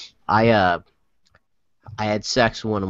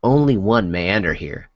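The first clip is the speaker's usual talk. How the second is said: low, slow mock-epic proclamation; dramatic reading; 4 semitones lower, slower than usual. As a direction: lightly intone it like an ancient oracle.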